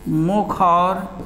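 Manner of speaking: slow, word by word for writing down; slow dictation. Shown as a demonstration. Teacher dictating to pupils, slow and word by word. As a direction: dictate each word slowly so pupils can write. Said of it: "teacher dictating to class".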